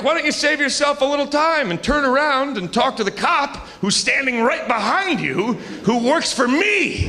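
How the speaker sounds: smug taunt. Retold or imitated. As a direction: gloat at him, dragging the last words. Comic taunts driver with cop.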